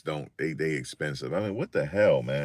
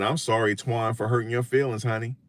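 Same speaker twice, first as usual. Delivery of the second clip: higher, sing-song sassy sorry with honey; mock sweet apology to a heckler; 6 semitones higher than usual. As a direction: tease him with a sweet fake apology. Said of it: "I said it just like that".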